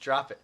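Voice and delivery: quick, plain-pitched "Drop it"; different inflection. Shown as a demonstration. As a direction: toss out "Drop it" briskly. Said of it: "Do a different inflection".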